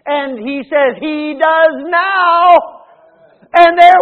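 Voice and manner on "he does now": slow, proud declaration; triumphant. Acted. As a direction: savour every word. Husband answers wife, story.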